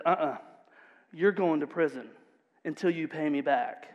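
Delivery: quiet, dismissive refusal; cold refusal. Acted. Unmerciful servant to begging debtor, cold and quiet. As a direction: shut him down coldly.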